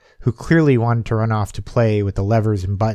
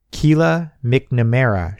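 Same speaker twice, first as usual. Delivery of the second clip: read out; slower than usual. Acted. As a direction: slowly read the name aloud. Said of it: "she read out".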